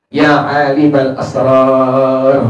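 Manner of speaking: drawn-out, slow plea to God; slow pleading call. Retold or imitated. Pious man calling on God, a slow earnest plea. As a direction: call on God slowly, from the heart. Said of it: "dia manggil-manggil Allah".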